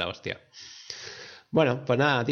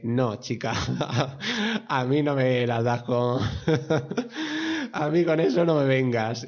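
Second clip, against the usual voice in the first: retorta burlona. Retold or imitated. Acting out Hawkeye's retort while laughing.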